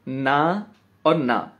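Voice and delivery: ना और ना spoken slowly apart; slow split. Shown as a demonstration. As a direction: separate the two ना sounds. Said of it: "ऐसे लगाइए". (ना और ना धीरे, अलग-अलग)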